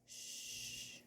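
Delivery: breathy hush to quiet the dog; soft unvoiced shush; whispered shush. Real, not acted. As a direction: hush the dog without waking the cat. Hushing dog near sleeping cat.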